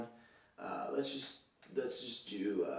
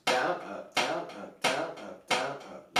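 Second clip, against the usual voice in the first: DOWN punched, up light and short; counting downstrokes with accents; slower than usual. Shown as a demonstration. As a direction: hit each "down" harder than "up". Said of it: "you put an accent on the downbeats".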